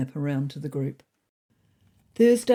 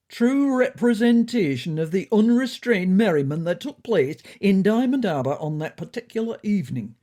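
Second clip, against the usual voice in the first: a hint of pompous, self-righteous lecturing, louder; 4 semitones higher, 6 dB louder than usual. Smoky O'Neill explaining the leak to the cabinet, mildly pompous and louder. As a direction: puff up and pontificate a little. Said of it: "with a pompous, self-righteous air".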